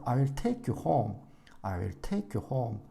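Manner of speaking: I will take you home, slow, with take and home long and strong; slow teaching read, take and home stressed. Shown as a demonstration. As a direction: rush I will, then lean on take and home. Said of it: "home 길고 강하게".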